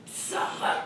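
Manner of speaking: urgent hushed whisper; mother whispering her daughter's name. Retold or imitated. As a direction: hiss her name softly. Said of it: "le silence derrière moi".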